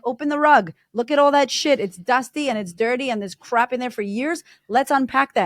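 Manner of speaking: rally her to open up; firm coaching call. Retold or imitated. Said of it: "And I'm like".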